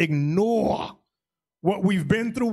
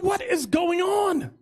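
slow mock outrage; 9 semitones higher, slower than usual. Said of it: "I said".

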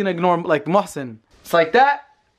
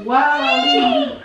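very high, slow "Wow, Ali"; high slow coo; much slower than usual. Real, not acted. Cooing at baby.

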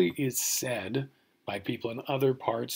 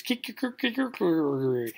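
higher, rolling crow that tumbles out; Greek rooster crow; 5 semitones higher, slower than usual. Retold or imitated. Lecturer attempting the Greek rooster sound, garbled crowing. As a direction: attempt a tongue-twisting rooster call. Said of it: "And the Greeks".

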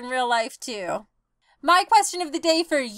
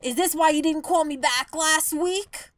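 ordinary talk, nothing marked

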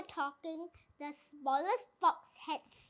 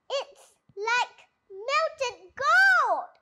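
slow, higher, drawn-out wonder; awed gasp; 6 semitones higher, 6 dB louder, much slower than usual. A narrator's reading. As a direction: savour every word like treasure. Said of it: "he gasped".

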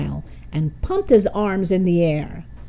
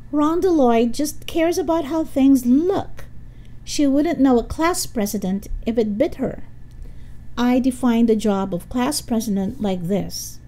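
mildly scornful, higher-pitched rival; scoffing; 5 semitones higher than usual. Acted. Helga attacks Rhonda in the debate, lightly scoffing. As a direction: scoff at your opponent for the crowd. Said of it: "Helga scoffed".

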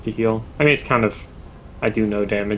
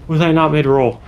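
stuttering shocked yell; 6 semitones higher, 5 dB louder than usual. Real, not acted. Player stunned again.

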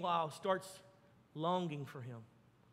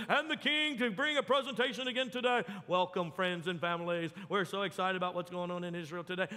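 lightly voiced TV anchor, upbeat and welcoming; mock newscaster; 3 semitones lower than usual. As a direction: read it like a cheesy morning-news host. Mock TV news about the king.

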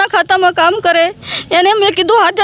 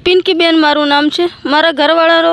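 speaking up; 3 semitones lower than usual. Real, not acted. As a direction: raise the voice so the reporter hears. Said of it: "જરાક જોરથી બોલો". (કહેવાથી થોડું મોટેથી બોલેલું)

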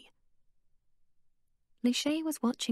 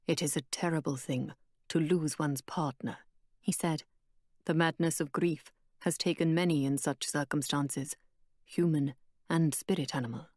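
Tariq's voice; 4 semitones lower than usual. Acted.

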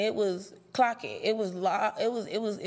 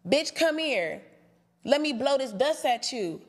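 mocking suggested line; 3 semitones higher than usual. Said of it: "come up with something else".

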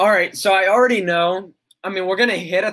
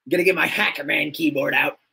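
mock hacker wannabe. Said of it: "they're like".

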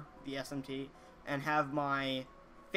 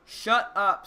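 mock shout; 5 semitones higher, 11 dB louder than usual. Mock retort to insulting commenter.

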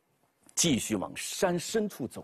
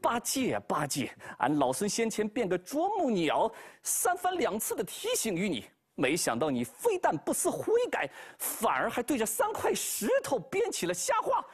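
higher, stern monkey voice rising to a threat; Monkey King scolding; 8 semitones higher than usual. Acted. Wukong scolds Bajie for lying, higher and stern. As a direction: scold the lazy pig, then threaten.

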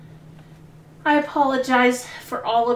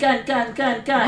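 panicking gamer; 2 semitones higher, 4 dB louder than usual. Real, not acted. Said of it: "That really scared me".

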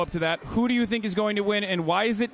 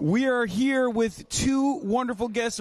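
slow, higher showbiz announcer read; 4 semitones higher, slower than usual. Acted. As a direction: present the guests like a ringside announcer. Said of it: "This is my announcer voice".

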